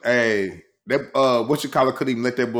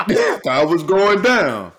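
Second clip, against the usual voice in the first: slower, louder, laughing through the words; laughing quote; 7 semitones higher, 9 dB louder, slower than usual. Retold or imitated. Retelling the sports clip to his cohost, laughing. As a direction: giggle the line out as you repeat it.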